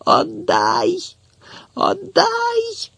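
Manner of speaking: put-on the boy screaming at Tetiana to give it back, very high; wild scream. A narrator's reading. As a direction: scream it wildly, as if terrified. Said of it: "дико, страшно, надзвичайно закричав".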